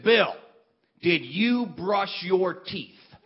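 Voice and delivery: mock grave question, slow, barely holding in a laugh; as seriously as possible. Skeeter asking Bill in the dark, mock serious and slow. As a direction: play it dead serious while the laugh leaks. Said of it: "as seriously as possible".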